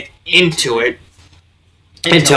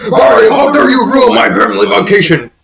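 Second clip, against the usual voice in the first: mock Bowser rant; 6 semitones higher than usual. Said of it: "Flashback to Super Mario Sunshine".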